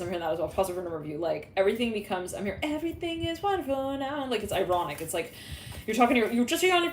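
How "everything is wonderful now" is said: fake cheerful. Nervous caller faking calm.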